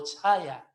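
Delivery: "chaya" with breath after the CH; wrongly aspirated CH. Shown as a demonstration. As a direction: let air through the CH of "chaya". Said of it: "no es chaya".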